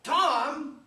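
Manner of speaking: high, loud and desperate pleading; frantic plea. Acted. Freed from the gag, Huck begs Tom in high frantic panic. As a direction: beg an old friend to spare you.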